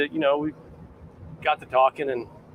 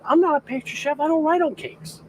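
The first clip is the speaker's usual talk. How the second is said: higher, louder retold refusal, hammed up; indignant mock protest; 13 semitones higher, 4 dB louder than usual. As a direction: bristle at the request, playing up the outrage. Retold refusal to the boss's wife.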